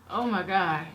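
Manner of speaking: lips burning from hot noodles; speaking through burning lips; mouth burning from spicy food. Real, not acted. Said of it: "My lips are burning".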